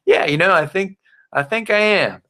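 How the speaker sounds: pitched well up, sing-song prospect agreeing; exaggerated eager yes. Shown as a demonstration. Coach mimics prospect agreeing to start, high hammed-up yes. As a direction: ham up the keen buyer saying yes. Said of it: "you'll remember me going".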